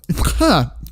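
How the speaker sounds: thanking him through real laughter, high and slow; laughter breaks into the thanks; laughing. Real, not acted. Streamer laughing while thanking a viewer, laughing. Laughing at a dark chat joke.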